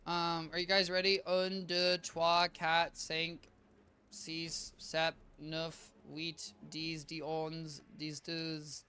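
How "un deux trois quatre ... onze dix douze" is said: horrible French accent. Shown as a demonstration. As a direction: recite French numbers like a struggling pupil with a poor accent. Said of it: "my French accent, horrible".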